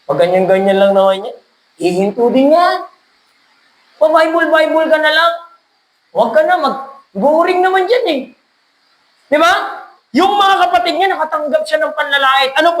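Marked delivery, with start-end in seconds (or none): 0.1-8.2 mocking critic. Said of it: "may mga maririnig kang nasa paligid mo".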